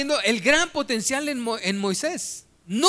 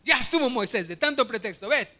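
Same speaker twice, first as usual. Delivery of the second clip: angry God. Acted. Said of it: "Dios se enoja y le dice".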